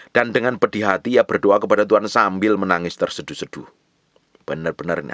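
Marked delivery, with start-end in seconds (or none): 0.1-3.7 projected preacher's reading; scripture reading. Acted. Preacher reads of Hana praying in tears, loud scripture reading. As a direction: read the verse out firmly and loudly.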